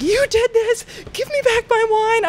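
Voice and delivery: high, shrill-pitched accusing yell; retold furious accusation, pitched high; angry drunk yell. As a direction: imitate her accusing you, way up high. Drunk woman losing it at bartender.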